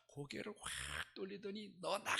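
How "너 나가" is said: loud, long-drawn order to get out; belted mock yell; retold shout. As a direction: imitate mother yelling to drive someone away. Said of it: "이러고 소리를 지르더라고".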